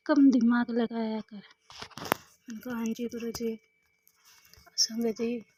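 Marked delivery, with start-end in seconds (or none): 0.1-1.4 same advice, slower and drawn out; slowed-down second take; slow repeat. Retold or imitated. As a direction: repeat it slowly, leaning on कम. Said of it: "गुरु जी कई बार तो कहते हैं".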